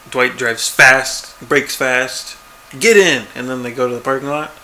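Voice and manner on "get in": loud, higher urgent order; quick shouted command, quoting a character; imitated urgent call. Dwight calls to Jim from the car, imitated urgent call.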